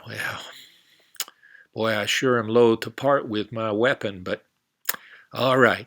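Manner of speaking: lightly voiced reluctant cowboy. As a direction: give in like a cowboy.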